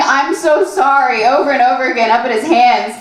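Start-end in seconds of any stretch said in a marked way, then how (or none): 0.0-1.2 slow, subdued retold apology; repeated mock apology. Boyfriend still apologizing up at his hands, mock dazed. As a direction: imitate a stuck, drawn-out apology without yelling. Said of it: "Still saying".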